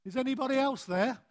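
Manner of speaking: high, quick, anxious call; hopeful frightened shout; nervous plea. Acted. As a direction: call up for someone else, comically desperate. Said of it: "he took a gulp".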